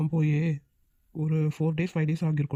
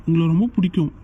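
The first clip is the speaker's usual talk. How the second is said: louder, heartfelt pleading to the seniors; earnest loud plea; 5 dB louder than usual. Acted. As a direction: push it out loud and sincere.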